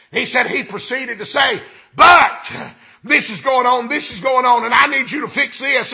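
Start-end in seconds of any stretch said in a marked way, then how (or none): 2.0-5.9 loud phone talk. Retold or imitated. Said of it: "talking loud enough everybody in there could hear him".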